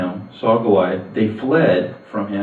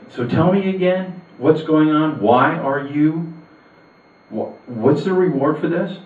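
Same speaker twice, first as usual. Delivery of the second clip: high, urgent demanding questions; indignant young man demanding answers; incensed disbelief; 7 semitones higher, slower than usual. Acted. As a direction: press them hard, outraged nobody acts. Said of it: "David is just incensed".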